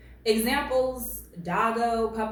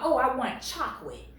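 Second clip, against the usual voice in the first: lightly imitated baby talk, "chock-wit"; mock toddler; 3 semitones higher than usual. Commentator mocking a man who talks like a toddler, baby talk. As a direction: mimic a whining tot with w for l. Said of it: "talking like he's a toddler".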